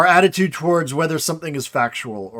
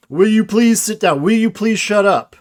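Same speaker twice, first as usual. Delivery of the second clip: mock-irritated demand, pitched up; exasperated, higher-pitched demonstration; irritated request; 5 semitones higher, 3 dB louder than usual. Shown as a demonstration. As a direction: show impatience with whoever won't behave. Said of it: "it conveys that irritation".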